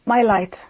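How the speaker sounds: firm emphasis on "My"; stress on MY. Shown as a demonstration. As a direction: land on "My" as the key word, then fall. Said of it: "I want to highlight or emphasize the word my".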